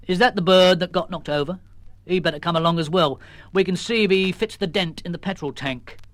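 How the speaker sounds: lightly voiced sergeant; police sergeant. Sergeant delivering a message, lightly voiced. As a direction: official and plain.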